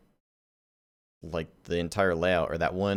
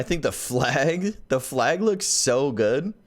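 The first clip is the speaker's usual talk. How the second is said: slowed-down, higher, drawn-out voice; 6 semitones higher, slower than usual. Retold or imitated. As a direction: stretch it out like slow motion. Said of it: "I like the slow-mo voices".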